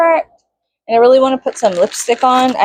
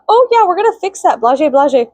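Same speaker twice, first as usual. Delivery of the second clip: mock dismissive devs; 7 semitones higher than usual. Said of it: "they were like".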